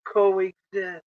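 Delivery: coexist said firmly, falling at the end; stress on coexist. Shown as a demonstration. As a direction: land hard on coexist. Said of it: "The key word is".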